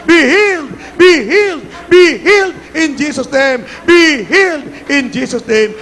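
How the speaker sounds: forceful, rising-and-falling preacher's call; insistent faith-healer's cry; healing command. Real, not acted. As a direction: hammer out each command to be healed. Calls out healing over crowd.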